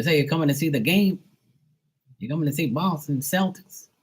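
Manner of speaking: high, rising mock Boston questions; Boston accent. Bostonians asking about the game, imitated Boston accent. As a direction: put on an eager Boston accent. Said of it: "So they talk all crazy".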